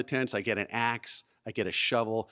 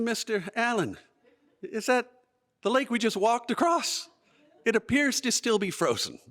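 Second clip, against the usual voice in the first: much higher voice, hesitant pauses; boy questioning scoutmaster; 10 semitones higher than usual. Retold or imitated. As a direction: politely query an absurd order, pitched way up.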